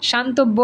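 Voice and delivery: শান্তব্য with a doubled b; wrong pronunciation. Shown as a demonstration. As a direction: say শান্তব্য as shan-tob-bo. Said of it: "না এরকম বলি না".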